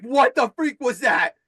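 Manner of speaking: high-pitched retold shock; shocked outburst. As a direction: act out a stunned, gasping man's question. Retelling man's shock after being released.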